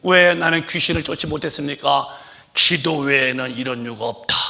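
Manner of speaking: high, loud impassioned sermon; fervent preaching. Real, not acted. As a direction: cry out like a revival preacher. Preaching at full force. (목청 높인 열정적 설교)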